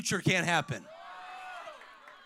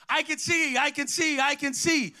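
mock excited scream; 3 semitones higher than usual. Preacher voices young Stevie discovering he can see, mildly screamed. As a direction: cry it out higher, without a full scream. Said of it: "he started screaming".

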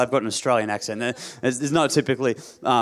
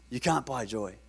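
softer repeat; 2 semitones lower, 9 dB quieter than usual. Real, not acted. Preacher repeating the key point to the congregation, softly. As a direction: let the point land softly.

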